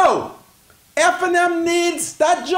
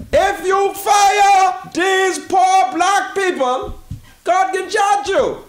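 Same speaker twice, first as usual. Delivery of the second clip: a raised, sing-song cry; impassioned shout; 2 semitones higher, slower than usual. Real, not acted. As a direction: belt it out like a preacher. Pleading with the minister on air.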